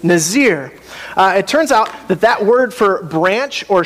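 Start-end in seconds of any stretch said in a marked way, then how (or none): 0.0-0.7 Nazir on its own as nuh-ZEER; Hebrew pronunciation demo. Shown as a demonstration. Preacher leading the congregation in saying it, Nazir pronounced nuh-ZEER. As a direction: model Nazir for repeating, long ee. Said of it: "Can you say nazir?".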